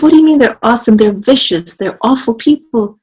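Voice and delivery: high, loud incredulous protest; disbelieving father. Retold or imitated. Father protesting to his son, high incredulous voice. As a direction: argue back in disbelief.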